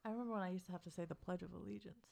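pinching nose. Real, not acted. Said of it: "I was just plugging my nose".

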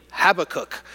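Habakkuk stressed on the first syllable, HAB-uh-kook; correcting pronunciation. Acted. Friend corrects how you said the name, correcting pronunciation. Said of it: "Nobody knows really what the emphasis is".

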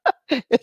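short high real giggle; a quick burst of laughter at a joke; amused giggle. Real, not acted. Reading a cheeky viewer question, real giggle.

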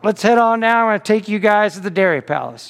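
lightly imitated Southern accent; Uncle Howard. Uncle inviting guests out to Dairy Palace, mock Southern accent. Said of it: "this is the only accent I'll ever try to do".

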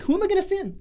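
voicing God. God looking down at a wicked earth, urgent high call. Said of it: "God's looking down at the earth like".

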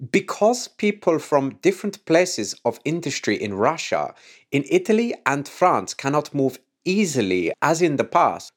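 bad put-on European accent, barely shifted; half-hearted attempt at the space chief's accent; lightly faked foreign accent, ending on a questioning yes; Jan Werner accent. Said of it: "the worst accent I've ever done".

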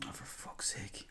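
slow, very soft, whispered groan of disappointment; disappointed sigh. Retold or imitated. Podcaster recalls switching on the television after the World Cup, disappointed. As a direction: mutter it slowly under your breath, let down. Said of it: "I just kinda get disappointed going".

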